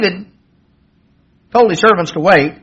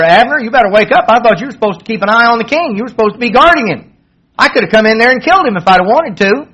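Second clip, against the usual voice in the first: raised, fast mock call across a valley; hollering at the guard to wake up, only a little louder; 4 semitones higher, faster than usual. David calls across the valley to Abner, raised and hurried. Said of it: "cried out with a loud voice".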